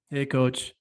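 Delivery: low, soft, deflated "Hey, coach."; quoting a low client's dull greeting; mopey hey coach. Retold or imitated. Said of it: "And you're like".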